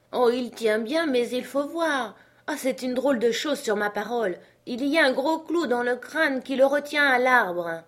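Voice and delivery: high, marvelling character voice; puzzled servant. Acted. Jupiter examines the nailed skull, puzzled. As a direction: call down the odd discovery.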